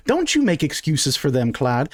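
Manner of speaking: mildly indignant tirade; scolding wife. Acted. Wife scolding her husband about adventurers, lightly indignant. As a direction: cut him off and rant about these troublemakers.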